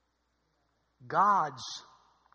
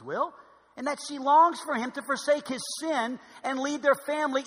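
emphatic, raised-pitch reading with measured phrasing; slow, deliberate reading; 5 semitones higher, 7 dB louder than usual. Real, not acted. Preacher reading Piper on submission, slow and deliberate. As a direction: read it out with weight, easing down at the end. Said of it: "I'm reading this slow".

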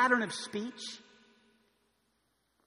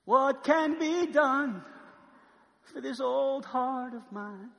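tender prayer; 3 semitones higher, much slower than usual. Acted. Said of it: "Weeping is".

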